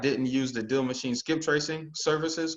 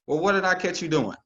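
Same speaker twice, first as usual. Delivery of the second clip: lifted, louder, chatty question; friendly curious question; 6 semitones higher, 4 dB louder than usual. Shown as a demonstration. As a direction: ask it like a buddy. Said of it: "the perfect question".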